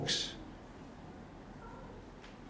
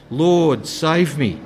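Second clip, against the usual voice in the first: mild cry for help; 5 dB louder, much slower than usual. Retold or imitated. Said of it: "he cried out".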